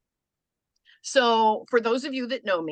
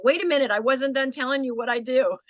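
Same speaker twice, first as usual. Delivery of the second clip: mock pushy pitcher; 5 semitones higher, 3 dB louder than usual. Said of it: "chase 'em out of the elevator saying".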